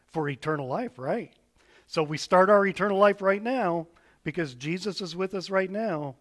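put-on gentle, patient voice for children; sweet patient sunday school. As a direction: talk kindly to little kids. Children's message to the kids.

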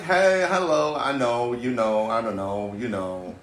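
loosely imitated Valley girl; lightly voiced Valley girl chatter. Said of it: "they sound like".

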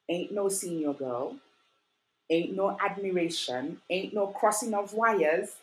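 slow, each ain't no punched, rising; emphatic denial. Retold or imitated. Teen firmly telling friends she is not crushing on anyone. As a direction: lay it down slowly, beat by beat.

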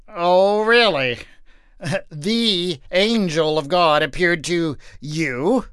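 slow, laughing disbelief; husband laughing off his wife's story, mocking; guffawing mockery. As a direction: laugh in her face. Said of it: "Manoah guffawed".

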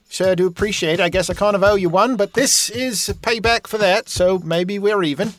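high, sing-song innkeeper woman welcoming a guest; folksy innkeeper lady. Acted. Innkeeper Batima greeting a new guest, high and homey.

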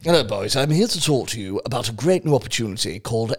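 low, lightly put-on posh English accent. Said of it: "if his name was fucking Henry Whittingstall".

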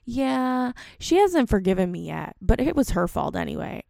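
imitating daughter. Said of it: "And she's like".

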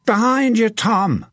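high, urgent warning shout; sudden high cry of alarm; bellowing. A narrator's reading. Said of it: "Hook's voice bellowed".

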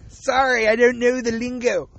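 "Sorry" through a real laugh; laughing apology. Real, not acted. Laughing at his own mistake, he apologizes to listeners. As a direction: chuckle out an apology.

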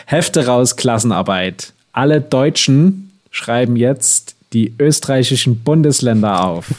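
strict teacher. Pretend. Mock teacher announces class test.

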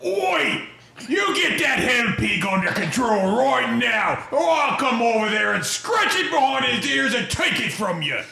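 shouting at orcs. Acted. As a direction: call out across the pen to put them in their place. Dwarf yells at orc guards.

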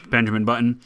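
bury the name under a cough; cough over word. Shown as a demonstration. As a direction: say the title through a throat clear. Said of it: "another one I'm gonna cough over".

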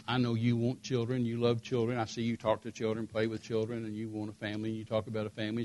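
soft, low, subdued sorrow; understated imitation of a tearful confession, hushed; retold tearful confession. Wife confessing she can't give him children, mildly tearful. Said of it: "she's just sobbing".

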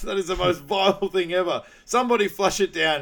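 high, loud hammed-up disgust; mock revulsion. Imitating a film character appalled by the toilet, mock revulsion. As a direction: exclaim it like you're appalled.

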